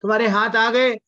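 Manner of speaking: high-pitched amazed question; astonished. Acted. Astonished king sees the severed hands restored, amazed. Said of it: "राजा चकित".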